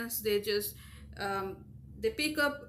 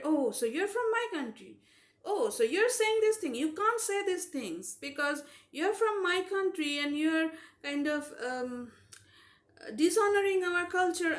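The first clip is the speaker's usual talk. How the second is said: higher-pitched imitation of indignant reproach; mock scolding; 5 semitones higher than usual. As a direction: imitate someone policing what you say. Acting out controlling compatriots scolding her.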